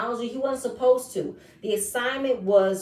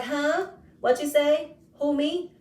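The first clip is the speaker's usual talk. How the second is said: raised, playing dumb; mock innocent; 5 semitones higher, slower than usual. Mimicking the guy feigning innocence to her. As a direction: act like you didn't hear her.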